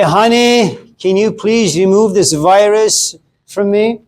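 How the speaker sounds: put-on sugar-coat it to get rid of the kid; mock sweet plea. Tired dad to his kid, mock sweet pleading. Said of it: "you say".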